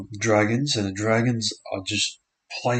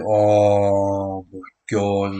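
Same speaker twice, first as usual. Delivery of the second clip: amazed; 4 dB louder, much slower than usual. Real, not acted. Reacts to a big play.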